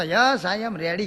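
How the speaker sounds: slow, drawn-out mock English; mock proud reply. Village woman woken at midnight, slow proud mock English. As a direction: answer grandly in slow broken English.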